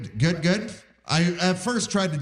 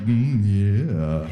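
mock sultry; 7 semitones lower than usual. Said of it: "And I'm like".

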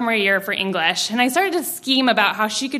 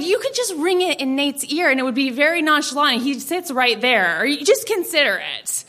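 put-on higher-pitched teen persuading mom; coaxing suggestion; 3 semitones higher than usual. Teen selling her revenge plan to mom, coaxing. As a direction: float the scheme as if harmless.

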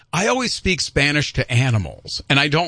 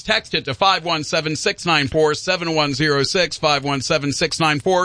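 radio call-to-action read. Acted.

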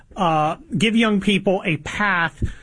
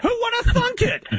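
high, laughing mock surprise; sarcastic punchline, giggling. Real, not acted.

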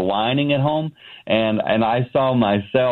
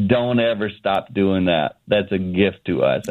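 tender plea; 3 semitones lower than usual. Retold or imitated. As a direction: hold his face and say it gently. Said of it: "grabbed me by the face and she said".

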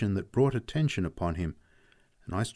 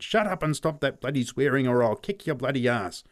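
louder, higher angry threat; 5 semitones higher, 4 dB louder than usual. Acted. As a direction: silence the boy. Pat threatening the boy.

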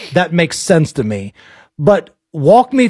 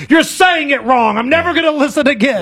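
higher, fast whiny mock complaint; a higher, faster mock of angry commenters; mocking complainers; 6 semitones higher than usual. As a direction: rattle it off like an offended listener. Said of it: "I've had people come at me".

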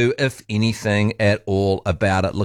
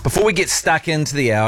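radio host intro; 3 semitones higher than usual. Acted. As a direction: welcome listeners like a broadcaster. Radio host show opening.

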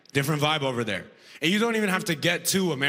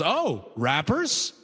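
smug agent; much slower than usual. Retold or imitated. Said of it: "the T S A guy goes".

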